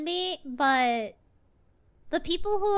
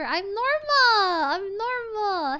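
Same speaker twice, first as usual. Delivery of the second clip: defensive insisting; 4 semitones higher, slower than usual. Real, not acted.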